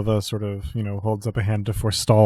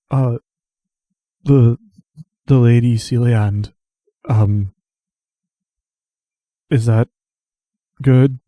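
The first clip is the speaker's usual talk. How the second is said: hesitant Truth; 8 dB louder than usual. Acted.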